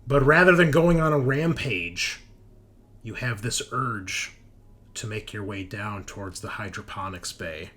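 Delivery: game master narration. Acted. Game master describing the players' mutation and capture, dramatic narration. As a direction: set the scene deliberately, phrase by phrase.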